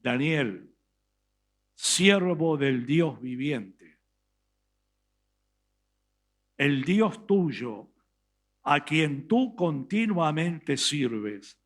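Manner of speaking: a touch of sorrow, slow; lightly voiced grieving king calling down, slow; sad voice. King calls sadly to Daniel in the pit, slow and mild. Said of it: "Con una voz muy triste le dijo".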